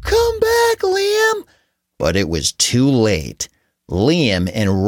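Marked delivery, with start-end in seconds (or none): 0.0-1.4 high, urgent yell after him. Acted. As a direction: call out as he runs off. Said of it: "Liam's parents both yelled".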